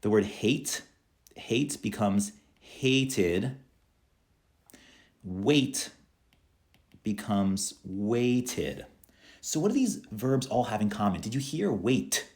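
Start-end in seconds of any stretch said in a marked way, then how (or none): 2.6-3.6 HATED slowly as hate-id; id ending. Shown as a demonstration. Teacher modelling verbs with the id sound, slow id ending. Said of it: "have the id sound at the end". 7.8-8.9 WAITED very slowly as wait-id; id ending. Shown as a demonstration. Teacher modelling verbs with the id sound, slow id ending. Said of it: "have the id sound at the end".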